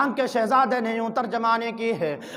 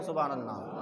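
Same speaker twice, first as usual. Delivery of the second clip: soft subhanallah; 9 semitones lower, 12 dB quieter than usual. Shown as a demonstration. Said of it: "محبت سے کہیں".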